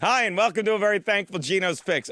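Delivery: matter-of-fact retake of the greeting; subdued restart. Real, not acted. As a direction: redo the intro without the lift. Redoing the opening after outburst.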